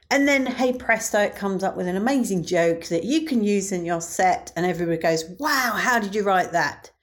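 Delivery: mock-impressed, with a touch of sarcasm; lightly sarcastic. Real, not acted. Comedian doubting an AI app's jokes, lightly sarcastic. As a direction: oversell it with gentle irony. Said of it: "little bit of sarcasm in my voice".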